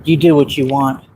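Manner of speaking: imitating the officer like a film warning, trailing into a whisper; dramatic movie line. Officer warning the panhandler like a movie scene, dramatic hushed finish. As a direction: deliver it like a movie tough guy, drop to a whisper at the end. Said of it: "That's exactly the way he said it".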